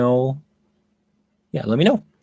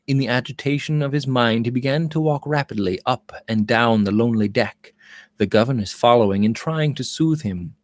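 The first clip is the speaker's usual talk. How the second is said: even, measured storybook reading; story narration. A narrator's reading. Narrator setting the deck scene, calm story reading. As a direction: read it like a novel aloud.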